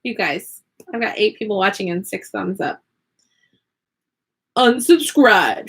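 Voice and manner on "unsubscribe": slow, higher pronouncement of an imagined offended viewer; mock-outraged viewer, stretched out; mock disapproval. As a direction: pretend to be a viewer quitting, drawn out.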